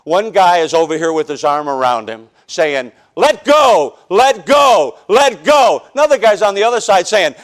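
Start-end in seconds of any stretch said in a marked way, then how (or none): 3.2-5.8 insistent shouted let go; mock urging shout. Altar worker urging a convert.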